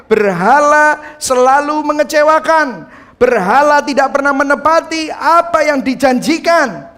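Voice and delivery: loud, high, slow sermon build about idols; preaching at full force. Acted. Preacher warning the church about idols, loud and slowing. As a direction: drive it home like a preacher at his peak.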